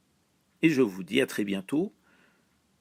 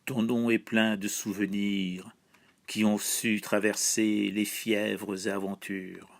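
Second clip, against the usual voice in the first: slow, measured poetry reading with level, even intonation; poem recitation. Acted. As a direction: recite it solemnly as a patriotic poem, line by line. Recites own translation of poem. (récitation de poème, lente et posée)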